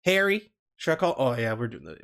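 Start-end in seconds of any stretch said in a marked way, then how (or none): 0.0-0.5 Southern accent. Shown as a demonstration. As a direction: test a Southern voice, a bit higher. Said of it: "Should I do the Southern accent?".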